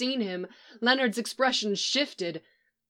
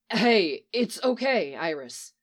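soothing; 2 semitones lower than usual. Acted. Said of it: "Barry soothed her gently".

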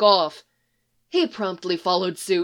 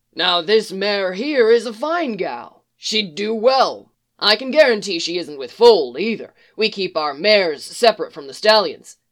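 salesman pitch; 3 dB louder than usual. Acted. Stable man's sales pitch.

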